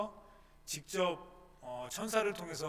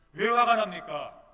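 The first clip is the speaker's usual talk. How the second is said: slow, much louder rhetorical question; emphatic question; 4 semitones higher, 13 dB louder, slower than usual. Real, not acted. Preacher challenging congregation, slow and loud. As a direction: hammer the question home.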